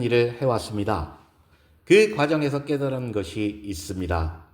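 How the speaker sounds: composed, courteous formal speech opening; lightly voiced lecturer addressing an audience; poised woman lecturer. Gives a lecture in story. (여유롭고 정중한 강연 말투)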